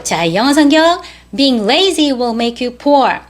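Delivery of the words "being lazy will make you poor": slightly quicker memory recitation; careful model, slightly sped up; a little faster. Shown as a demonstration. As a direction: recite a touch more briskly. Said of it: "똑같은 문장인데 조금 빨리".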